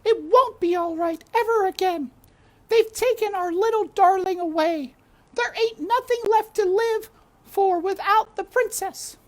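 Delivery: high loud cook's lament; shouting cook. A narrator's reading. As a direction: cry it out like a frantic old cook. Cook weeping for princess.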